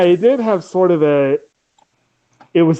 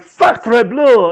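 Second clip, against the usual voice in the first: hammed-up bad French accent, higher; mock a cheesy Frenchman from the English dub; horrible French accent; 7 semitones higher, 4 dB louder than usual. Mocking the dub's Frenchman in a bad French accent. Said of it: "in this really horrible accent".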